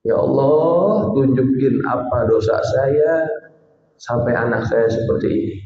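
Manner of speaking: slow, drawn-out plea to God; slow tearful prayer. Retold or imitated. Preacher voicing the weeping father at night prayer, slowly pleading. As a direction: stretch out the opening Ya Allah as you beg. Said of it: "dia nangis".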